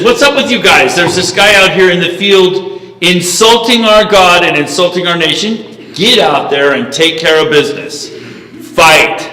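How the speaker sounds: punchy, emphatic challenge; rally the troops with punched key words; retold rousing call to fight; acted indignant rallying. David challenges his brothers, acted.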